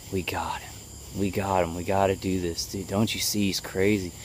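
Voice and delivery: quiet, smug, unhurried voices; calm voices. Retold or imitated. Voices gloating over the victim, quiet and calm. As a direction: voice them softly, gloating over a catch. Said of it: "it's like they got so calm".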